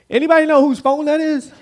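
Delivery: deadpan question breaking into a laugh; laughing punchline. Acted. Preacher to congregation, punchline laughing. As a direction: deliver the punchline through a laugh.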